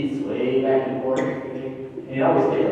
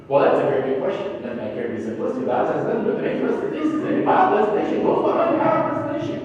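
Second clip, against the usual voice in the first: lightly put-on newscaster, rising and fast; 2 semitones higher, faster than usual. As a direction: rattle off a grand answer like a news anchor. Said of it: "in my best newscaster voice".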